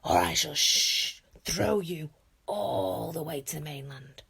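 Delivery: booming, slow, threatening teacher; very loud voice. A narrator's reading. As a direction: roar it out like a fierce Viking trainer. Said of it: "very loud voice".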